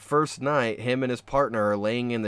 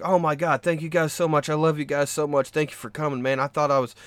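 imitating relieved gushing; 3 semitones higher than usual. Retold rescued man thanks the crew.

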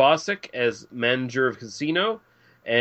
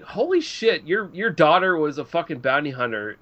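amazed. Retold or imitated. Mock amazed exclamation.

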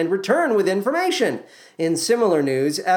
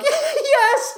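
laughing Javert. Acted. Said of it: "Javert is like".

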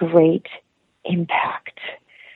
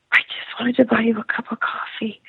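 gentle reassurance; 4 semitones higher than usual. Retold or imitated. Gentle answer to a crying woman.

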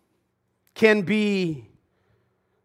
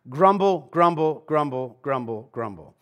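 fading grumble; 3 semitones lower than usual. Pretend. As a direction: let each grumble sink away to nothing. Mock grumbling, repeated.

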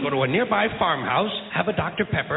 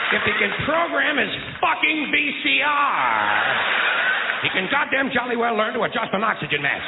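comic rant; 5 semitones higher than usual. Acted. Ranting about the child.

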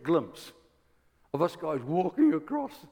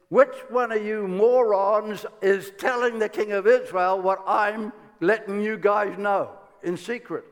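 raised voice, exasperated accusation; imitating a king at the end of his patience; frustrated king; 3 semitones higher, 4 dB louder than usual. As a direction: demand an answer from your men, loudly. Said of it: "as frustrated as a man can get".

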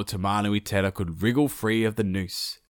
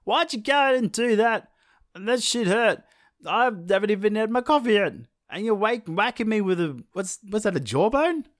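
sun in pain; 11 semitones higher than usual. Acted. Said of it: "Tamanui Tera was like".

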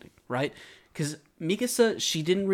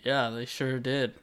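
softer mock agreement; feigned remembering; 4 semitones lower, 6 dB quieter than usual. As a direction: fake that you remember. Pretending to remember the boat.

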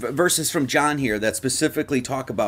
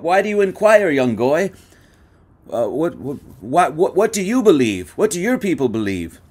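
higher, louder mock rabbi; 4 semitones higher, 3 dB louder than usual. Rabbi turning to the Gnostic, higher mock pushy voice. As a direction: ham up the rabbi pressing the question.

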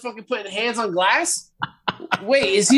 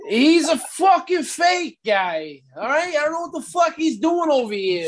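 angry rant; 4 semitones higher than usual. Acted. Angry rant about a fake wrestler.

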